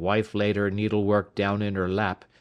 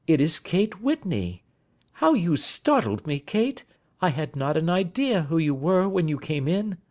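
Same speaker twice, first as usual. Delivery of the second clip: higher, startled but friendly wife; wife's raised voice, lightly startled; wife's surprised voice; 9 semitones higher than usual. A narrator's reading. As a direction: recognise an old friend with surprise. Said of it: "said my wife".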